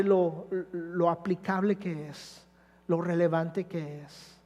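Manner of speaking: a tender prayer to close the sermon; closing prayer. Acted. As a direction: pray over the congregation gently.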